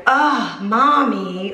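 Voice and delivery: put-on the weary groan of a fed-up almost-three-year-old; exasperated toddler. Daughter, unimpressed by the mouse joke, groans at mom. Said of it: "my kid went".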